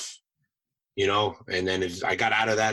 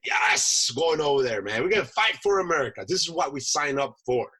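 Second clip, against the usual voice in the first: higher, eager rallying voice; rally the troops, raring to go; pumped up; 4 semitones higher than usual. Retold or imitated. Marine eager to fight for America, acting out being pumped up. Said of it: "I was, like, pumped up".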